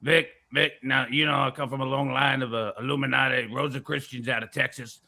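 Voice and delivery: lightly voiced rumble in the back; a hint of a rumbling impression; Alex Jones. Conspiracy talker explaining to Vic, lightly rumbling put-on voice. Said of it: "it's a little rumbling".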